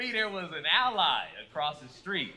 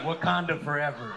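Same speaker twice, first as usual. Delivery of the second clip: mock white fan cheer; 4 semitones lower than usual. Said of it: "They're like".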